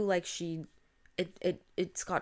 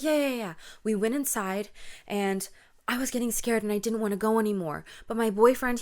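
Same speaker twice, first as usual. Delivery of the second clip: louder, urgent run-on account; panicked friend; 3 semitones higher, 5 dB louder, faster than usual. Acted. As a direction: play a rattled friend spilling everything out. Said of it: "panicked, panting, breathing heavy".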